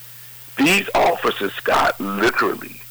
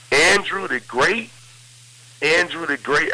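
surprised calling out; 6 semitones higher than usual. Retold or imitated. Blind Cosby calling out, unsure.

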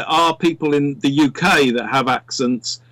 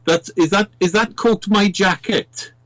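higher-pitched Welsh joke delivery; Welsh accent; 5 semitones higher than usual. Retold or imitated. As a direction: tell it in a put-on Welsh accent. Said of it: "which you only get if you're Welsh".

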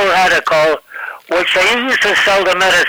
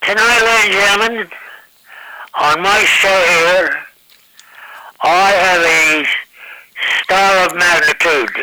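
Ed Sullivan introduction. Retold or imitated. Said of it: "Ed Sullivan introducing".

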